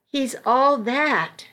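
slow, awed and dreamy; reverential. Acted. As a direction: say it with hushed awe. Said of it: "in a reverential voice she exclaimed".

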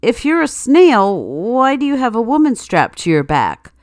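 baffled party host, lightly acted; confused. Host questions the costumed man, confused. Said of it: "The host is thoroughly confused".

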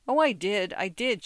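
a touch of earnest protest. Acted. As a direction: insist a bit, lightly. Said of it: "she protested".

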